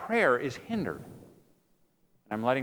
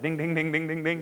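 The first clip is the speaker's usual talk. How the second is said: imitated dinging; 3 semitones higher than usual. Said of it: "like God said".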